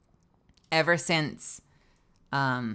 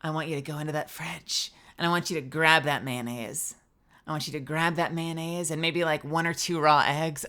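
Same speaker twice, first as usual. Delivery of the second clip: mock steamy voice. Coaxing the chat to the fridge in a mock steamy voice. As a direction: purr the gross recipe like a seduction. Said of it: "with a hot, steamy voice".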